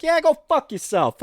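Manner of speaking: high, sneering brush-off; mock rude brush-off. Friend imagining a rude airport worker, mock sneering. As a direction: toss it off with mock contempt. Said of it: "be that fucking rude and be like".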